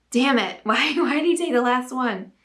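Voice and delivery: lightly acted indignant complaint; playfully put-out and frustrated; mock frustration. Acting out craving-induced frustration.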